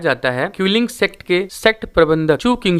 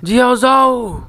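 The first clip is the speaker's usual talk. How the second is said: loud slow call, pitched high; a drawn-out shout of her name; 7 semitones higher, 3 dB louder, slower than usual. A narrator's reading. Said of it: "वुजिन चिल्ला के कहता है".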